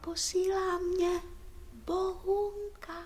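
soft confidential message; tichý hlas. Acted. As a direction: pass on a secret very quietly. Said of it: "Neumí nahlas, je tichá". (důvěrně, potichu)

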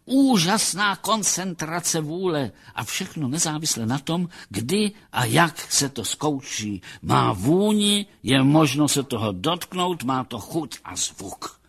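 a touch of rapt professional delight; enraptured psychologist. Acted. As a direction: savour it with a connoisseur's wonder. Voices the psychologist's admiring speech.

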